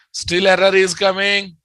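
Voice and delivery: frustrated call, punching "error"; exasperated shout. Real, not acted. Error persists, teacher repeats louder.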